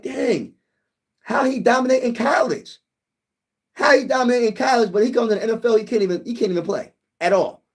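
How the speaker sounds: high-pitched disbelieving reaction; incredulous fan. Acted. Fan reacting to a college star flopping in the NFL, incredulous. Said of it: "you're like".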